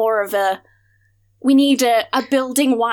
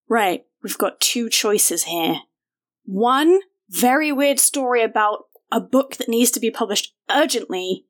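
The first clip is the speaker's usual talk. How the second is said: lower character voice; 4 semitones lower than usual. Acted. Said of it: "she's like".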